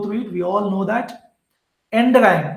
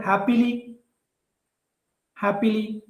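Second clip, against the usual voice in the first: "happily" with the first syllable hap punched; teacher hits hap in "happily" firmly; stress on hap; 2 semitones higher than usual. Shown as a demonstration. Teacher showing students the stress in "happily". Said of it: "the first syllable is stressed".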